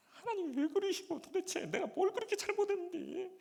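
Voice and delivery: high, loud wailing cry to God; loud tearful wail of reproach; crying prayer. Retold or imitated. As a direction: sob it out, pleading and desperate. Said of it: "울면서 기도를 했습니다".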